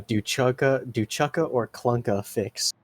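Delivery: low, slow creature rumble; big deep voice. Acted. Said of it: "uh, big deep voice".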